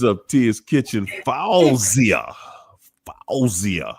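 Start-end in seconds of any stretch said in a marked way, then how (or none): 3.3-3.9 whispered try. Acted. Trying the name again.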